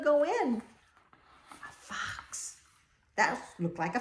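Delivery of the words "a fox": whispered guess, no voice. Acted. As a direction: breathe it like a secret.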